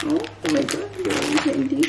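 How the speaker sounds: a high, thrilled gasp of discovery; delighted surprise. Real, not acted. Vlogger finding durian candy in the box from home, delighted surprise. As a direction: squeal over finding the candy.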